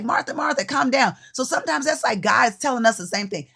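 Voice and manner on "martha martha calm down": lightly voiced Jesus, higher, chiding kindly; a hint of Jesus talking Martha down; Jesus voiced gently. Jesus telling busy Martha to sit, lightly voiced higher. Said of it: "He's like".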